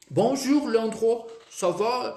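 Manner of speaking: high bonjour from a former student; student: Bonjour, Leandro, ça va?; student greeting imitation. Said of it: "Falava muito assim".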